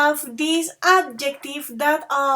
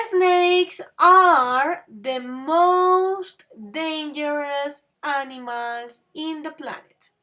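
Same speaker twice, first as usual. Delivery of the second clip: slowly, each word laid out for the class; slow model sentence; slower than usual. Shown as a demonstration. Teacher showing the superlative, slow and clear. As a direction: read it out slowly for learners. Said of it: "So, look at this".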